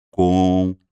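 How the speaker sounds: "conteúdo" very slowly, with long gaps between syllables. Shown as a demonstration. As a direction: hold each syllable of "conteúdo" loudly. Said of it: "Quatro sílabas".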